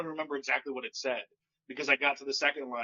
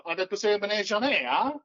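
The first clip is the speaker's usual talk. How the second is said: higher, louder mock French phrase; comic attempt at French; 8 semitones higher, 6 dB louder than usual. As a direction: fake French delivery, asking the crowd. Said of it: "get up on stage and go".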